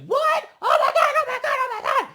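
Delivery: high, loud shrieked disbelief; mock-hysterical high yelling; shocked crowd reaction. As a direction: squeal it as the whole stunned crowd. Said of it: "everybody is just like".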